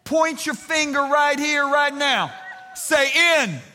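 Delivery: "In and for us" high and very slow. Shown as a demonstration. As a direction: push the sleepy ones to join in. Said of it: "come on".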